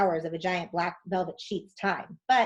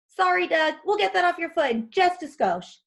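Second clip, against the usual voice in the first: high chipper voice; 9 semitones higher, 4 dB louder than usual. Acted. Tom voiced reassuring hurt caveman.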